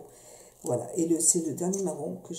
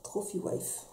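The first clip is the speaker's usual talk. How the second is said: whispered; 7 dB quieter, slower than usual. Real, not acted. Repeats lipstick name under breath.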